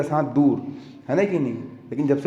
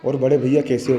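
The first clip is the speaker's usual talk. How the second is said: lower-pitched friendly hello, acted; affectionate greeting; 4 semitones lower than usual. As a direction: greet a rival with mild affection. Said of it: "जाना उसको प्यार से बोलना". (प्यार से बोलने का अभिनय)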